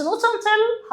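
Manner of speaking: "not until" stretched slowly, pitched high; drawn-out emphasis. Shown as a demonstration. Teacher hammering "not until" home to exam students. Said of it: "لأن not until بيجي بعدها جملة".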